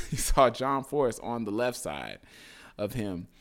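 laughing nervously through the words; uneasy chuckle while telling it. Real, not acted. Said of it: "I kinda do a nervous laugh".

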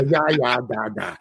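mock improv-style Russian accent; sketch-comedy Russian accent. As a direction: toss off a cartoonish Russian "da, da". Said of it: "Second City Committee improv Russian direction".

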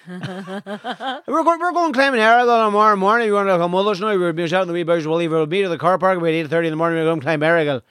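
lively Donegal lads, laughing; broad local lilt, excited invite; Donegal accent. Retold or imitated. Lads' invitation voiced.

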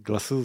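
GLASSES said as two syllables, "glass-iz"; attempted English pronunciation. Shown as a demonstration. Streamer showing viewers how glasses is said, unsure English pronunciation. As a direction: try the English word "glasses" with a French accent. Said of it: "je crois que ça se prononce comme ça".

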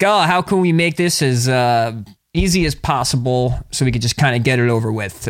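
smooth it over to get out of a conflict; passive aggressive. Acted. Voicing Mars Pisces avoiding conflict, passive aggressive. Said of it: "passive aggressive".

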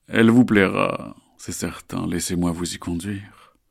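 slow, smooth, falsely soothing; reassuring. Acted. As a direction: lull them into trust. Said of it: "sa voix la plus rassurante possible".

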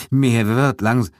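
slow, halting, shivering words; trembling voice. Acted. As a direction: speak through the shivers. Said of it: "sagte er mit zittriger Stimme". (mit zittriger Stimme, stockend)

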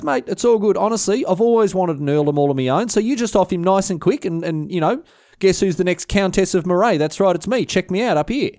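high, gleeful boasting; smug delight. Retold or imitated. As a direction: show off from up high. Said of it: "Agnes goes".

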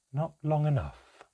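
measured, icy hostility; calm but seething. A narrator's reading. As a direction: keep it calm with rage simmering beneath. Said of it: "her voice strangely calm".

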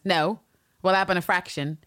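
lightly imitated co-host's character voice; a hint of someone else's acting style; Terrence. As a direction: play it as a light impersonation. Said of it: "do my best Terrence impersonation".

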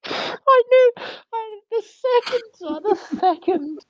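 high-pitched helpless laughter through the words; can barely get it out for laughing; laughing hysterically. Real, not acted. Cracking up at the toast.

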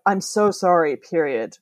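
"I'm so sorry" falling to a low "period"; deepening, heavy tone. Shown as a demonstration. Showing a period on sympathy, "period" low and heavy. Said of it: "deepening tone of voice and also sort of emotional heaviness".

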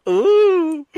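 high helpless laughter; can't stop laughing; laughing hard. Real, not acted. Host breaks up at her friend's slip, laughing hard.

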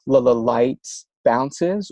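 "la la light" with quick easy repeats; light bounces. Shown as a demonstration. Clinician teaching a lighter stutter, bouncing on "light". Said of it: "a lighter way of stuttering".

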